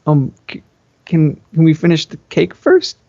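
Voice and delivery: nervous stammer on the words; stuttering. Acted. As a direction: stammer it out shyly. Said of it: "now I was stuttering like an infant".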